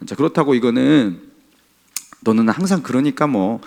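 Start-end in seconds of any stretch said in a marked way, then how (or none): 2.2-3.6 lightly acted sarcastic dismissal; a touch of snide resignation; mock sneering. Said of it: "이런 식으로 비아냥대라는". (살짝 비아냥대는 말투)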